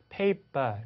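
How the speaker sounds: slow paper with no r; teacher stretching British paper slowly. Shown as a demonstration. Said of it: "R 사운드를 하지 않는다".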